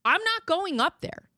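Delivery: high, reluctant mock husband voice; whiny husband. Wife mocking husband who won't complain, high whiny refusal.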